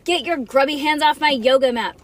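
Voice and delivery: puffing annoyance. A narrator's reading. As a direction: scold her for touching your things. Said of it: "puffed Nancy upside down".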